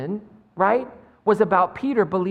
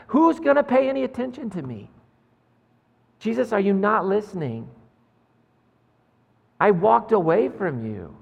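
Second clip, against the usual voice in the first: anguished pleading; 3 semitones higher than usual. Acted. Peter pouring out his fears.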